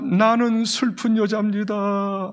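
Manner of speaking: slow, understated tearful confession. Acted. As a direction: draw it out with a touch of sorrow. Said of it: "아마 눈물을 툭툭 흘리면서". (눈물 어린 고백)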